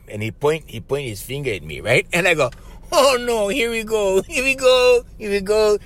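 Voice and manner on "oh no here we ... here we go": high, wailing dread; high-pitched "doomed" lament; mock panic. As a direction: play up the comic alarm. Acted dread at being threatened.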